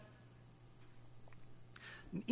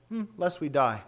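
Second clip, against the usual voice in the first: as an afterthought. Retold or imitated. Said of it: "almost as an afterthought".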